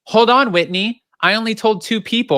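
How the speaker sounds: high, loud indignant protest. Retold or imitated. Recapping Lisa yelling at reunion.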